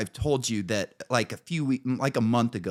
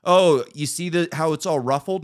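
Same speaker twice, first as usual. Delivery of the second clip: higher and louder, explaining; imitating the repairman; 6 semitones higher, 5 dB louder than usual. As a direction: point it out like the eager repairman.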